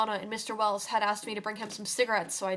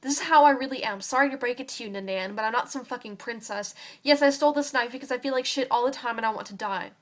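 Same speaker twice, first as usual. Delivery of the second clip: ranting; 2 semitones higher, 4 dB louder than usual. Acted. Girl ranting at Donna about wanting to die, loud and bitter. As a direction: throw it all at her, furious. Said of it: "at the sound of my ranting".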